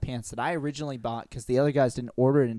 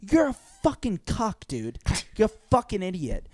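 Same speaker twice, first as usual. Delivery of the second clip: scoffing retort; 7 semitones higher than usual. Retold or imitated. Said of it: "I'm like".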